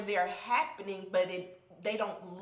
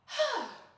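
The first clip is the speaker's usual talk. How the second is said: shaky sigh; 12 semitones higher than usual. Real, not acted. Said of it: "I'm about to cry".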